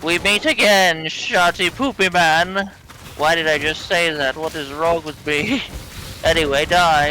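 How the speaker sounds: hammed-up NPC villain. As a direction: ham up a villain stuck saying a silly name. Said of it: "the N P Cs in this game, like, having to say them".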